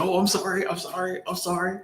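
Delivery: high, soft, repeated apology; imitating yourself backing down sheepishly; meek apology. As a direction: apologize small and quick to placate her. Acted apology to scolding shop owner.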